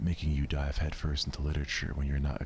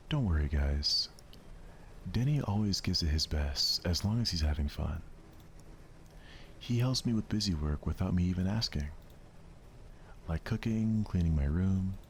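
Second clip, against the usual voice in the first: put-on bright higher girlish chatter; bubbly friend vouching for Denny; cheerful Sayori; 4 semitones higher than usual. Sayori reassuring the club about Denny, cheerful.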